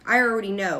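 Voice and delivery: dismissive know-it-all, mildly acted. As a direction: lightly act out someone who won't be told. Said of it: "this is like a know-it-all".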